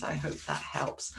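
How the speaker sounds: breathy whispered sign-off; soft whisper to the darlings. Real, not acted. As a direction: drop to a whisper to close.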